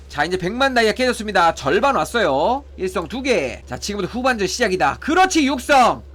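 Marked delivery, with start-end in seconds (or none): 5.0-6.0 higher, louder triumphant burst; excited cheer. Real, not acted. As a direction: celebrate the lucky pull out loud. Cheers a rare pull.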